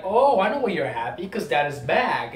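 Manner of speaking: imitated daughter needling her mother; knowing tease. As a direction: swoop up on a teasing 'oh, I know'. Acting out daughter teasing her mother.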